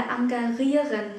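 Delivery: engagieren mis-said as "ahn-gah-REE-ren", r replacing zh; wrong r pronunciation. Shown as a demonstration. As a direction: show the mistake in "engagieren" with an r sound. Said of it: "Chúng ta không nói là".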